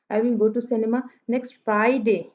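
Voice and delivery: Friday made prominent at the end; stress on Friday. Shown as a demonstration. Teacher shows which day is meant, stress on Friday. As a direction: save the emphasis for Friday. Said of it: "अब फ्राइडे पे stress आ गया".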